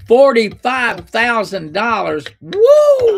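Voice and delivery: floored by the price, let it out; shocked disbelief. Real, not acted. Host stunned at caller's dental bill, loud shock.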